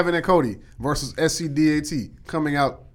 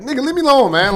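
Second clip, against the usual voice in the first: higher, louder exasperated cry; hiding from Batman, exasperated yell; mock yell; 10 semitones higher, 6 dB louder than usual. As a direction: shoo him away, half-laughing. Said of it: "I was like".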